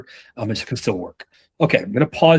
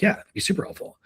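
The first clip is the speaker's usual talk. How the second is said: much higher, soft airy imitation of the kid; playful higher mock of the kid's yes; mock eager kid; 10 semitones higher, 5 dB quieter, faster than usual.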